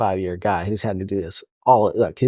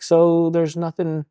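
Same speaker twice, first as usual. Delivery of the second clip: hopeful officer; 6 semitones higher, slower than usual. Retold or imitated. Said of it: "they're just like".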